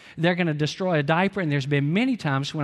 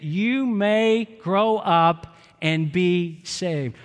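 slow group reading; much slower than usual. Shown as a demonstration. Pastor leading congregation in reading the verse, slow and measured. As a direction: read the verse slowly, word by word, with the congregation. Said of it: "Everybody read it with me".

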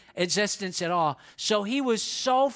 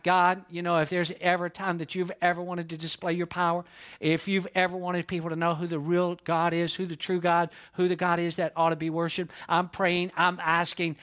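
earnest prayer; 4 semitones lower than usual. Acted. Acting out Elijah's prayer to God.

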